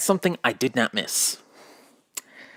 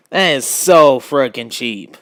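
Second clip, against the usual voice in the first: indignant; 7 dB louder than usual. Real, not acted. Indignant at Drover faking lame.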